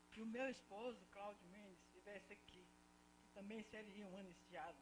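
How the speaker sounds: choked-up, quiet voice; fighting back tears while speaking; holding back sobs. Real, not acted. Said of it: "desculpa, eu estou emocionada".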